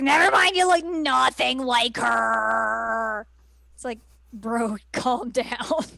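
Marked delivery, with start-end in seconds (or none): 0.0-3.3 mock dismissive Inuyasha. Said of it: "he's like".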